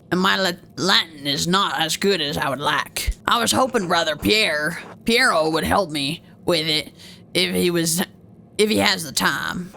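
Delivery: a hint of pirate, halting. Monk hopes for help with Latin, low light pirate voice. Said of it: "let's give him a pirate t-, voice".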